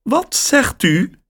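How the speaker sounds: surprised caller on the line; woman's voice. A narrator's reading. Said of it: "vraagt de stem".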